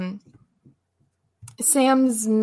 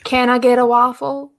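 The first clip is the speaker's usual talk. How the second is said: put-on voice, louder, ordering; hammy fast-food customer voice; 4 semitones higher, 4 dB louder than usual. Mock customer ordering at McDonald's.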